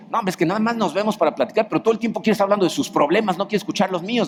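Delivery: lightly voiced friend rushing through a complaint; griping friend. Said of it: "incluso entre amigos".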